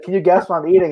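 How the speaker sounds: playful mock friend posing a teasing question; hint of a buddy's voice; Tyler impression. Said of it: "do a pretty good Tyler impression".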